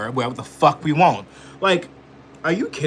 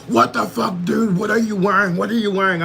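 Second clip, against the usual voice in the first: higher, louder mock-outraged bystanders; mocking the outraged crowd; 7 semitones higher, 5 dB louder than usual. Parroting people gawking at the costume, mock outrage. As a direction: sneer it like a shocked onlooker. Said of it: "And everyone's like".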